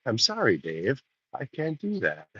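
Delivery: quiet, even machine refusal; lightly voiced cool computer. Quoting Hal's famous line softly. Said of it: "reply in that tone".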